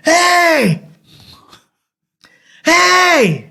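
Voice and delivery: high, drawn-out call; mock yell. Calling out at a closed house at night, high mock yell. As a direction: holler "hey" without full force. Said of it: "je gueule, je dis".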